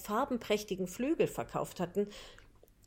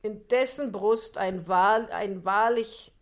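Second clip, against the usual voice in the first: sly fox; 5 dB louder, slower than usual. Acted. Fox voiced by narrator.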